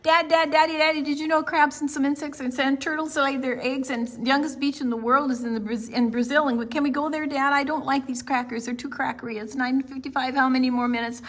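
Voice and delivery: put-on boy pestering dad the whole drive, fast; chattering child. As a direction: rattle on without a breath.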